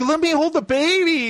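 high-pitched imitation of a furious girl; whiny, hammed-up insistence; mock angry demand. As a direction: play up her temper. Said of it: "she starts getting mad".

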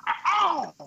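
just hit in the groin. Pretend. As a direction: act a sudden groin hit. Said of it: "Gordo hit me right in the nuts".

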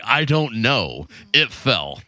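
slow, understated excuse; lightly imitated slow-talking friend; Darren impersonation. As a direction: draw it out as a helpless little shrug. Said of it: "Sounding like Darren again".

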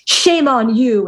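slow, drawn-out mock scolding; retold man's rebuke. Man scolding the woman in a famous movie line, slow mock rebuke. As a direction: imitate a movie scolding, stretching the words. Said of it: "the famous where he says".

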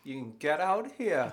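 laughing Geordie taxi driver; Geordie accent. Retold or imitated. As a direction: Geordie cabbie line, with a laugh. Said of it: "you can probably do the Geordie accent".

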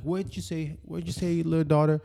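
high, hushed put-on voice; mock creepy prince. Podcaster acting a creepy prince questioning someone, high mock voice. Voicing prince asking the women.

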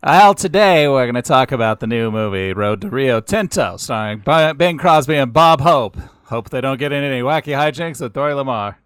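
Bob Hope impression. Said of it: "that was a Bob Hope impression?".

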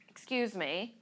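softly said, restrained "excuse me"; restrained request. Retold or imitated. First request to the man blocking her.

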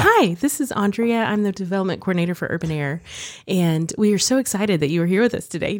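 polished customer service voice; bright professional phone greeting; work voice. Shown as a demonstration. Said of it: "my work voice in the car".

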